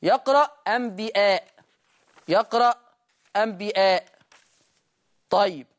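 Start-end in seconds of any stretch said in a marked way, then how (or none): 0.7-1.5 أنبياء: همزة محققة قبل المد; حقق همزة أنبياء; أنبياء بالهمز. Shown as a demonstration. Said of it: "بالهمز". 3.3-4.0 أنبياء: همزة محققة قبل المد; حقق همزة أنبياء; أنبياء بالهمز. Shown as a demonstration. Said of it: "بالهمز".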